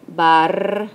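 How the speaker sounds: "barralo" as loud long BARR, then a, lo; split into syllables. Shown as a demonstration. Teacher showing the accent in an example, "barralo" in separate syllables.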